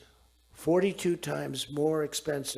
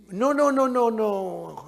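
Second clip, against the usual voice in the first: high, loud imitated protest; mock loud refusal; 7 semitones higher, 11 dB louder, slower than usual. Macron refusing the price rise, louder and higher. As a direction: play the panicked refusal big.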